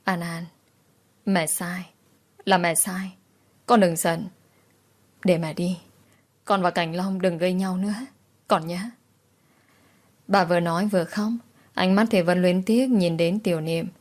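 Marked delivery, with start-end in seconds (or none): 0.0-8.8 pleading, choked. Acted. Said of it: "khẩn khoản nghẹn ngào".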